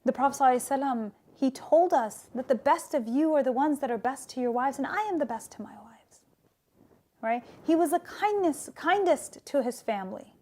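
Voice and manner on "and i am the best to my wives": soft quick whisper; whispered quote. Retold or imitated. Teacher quoting the Prophet to the listeners, in a whisper. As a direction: breathe the line out, fast and hushed.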